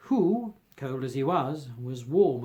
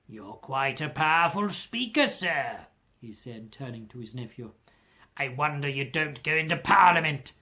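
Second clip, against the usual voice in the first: sarcastic. Acted. Scrooge mocks his nephew.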